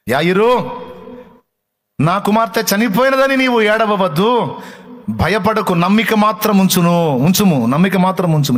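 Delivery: high, loud, urgent proclamation; fervent preacher voicing Jesus; full-force preaching. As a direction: call it out over the congregation. Preaching Jesus' words to Jairus.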